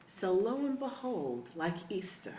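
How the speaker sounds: joyful laughing proclamation, as if announcing a miracle; gleeful laughing shout about mom rising; laughing excitement. Real, not acted. Joking mom rose like Easter.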